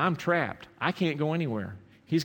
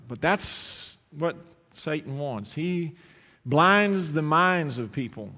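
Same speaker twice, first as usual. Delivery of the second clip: closing prayer. Acted. Pastor prays over the bowed congregation, earnest and fervent. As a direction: pray over the church, pleading and building.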